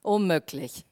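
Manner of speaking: low-pitched, doubting retort; sceptical Gideon. Acted. Gideon doubts he can rescue Israel, sceptical. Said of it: "sondern denkt".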